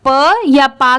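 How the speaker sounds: प as short "puh", पा as long "paa"; wrong sounds. Shown as a demonstration. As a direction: sound out प and पा separately. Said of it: "की sound नहीं आएगी".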